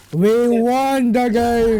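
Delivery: slow, drawn-out victory cry; triumphant. Real, not acted. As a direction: savor the win out loud. Celebrating the win.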